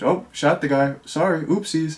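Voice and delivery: breezy, offhand delivery. Retelling a movie scene, imitating a character's nonchalant tone. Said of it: "he was just so nonchalant about it".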